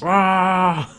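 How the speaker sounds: high, drawn-out playful roar; hammed-up "raah"; mock roar. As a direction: roar along in mock triumph. Imitates triumphant roar.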